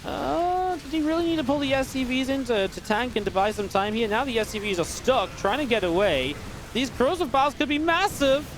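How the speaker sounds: high-pitched, incredulous play-by-play; agitated commentary. Real, not acted. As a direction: voice jumps up high as the fight unfolds. Alarmed reaction to live play.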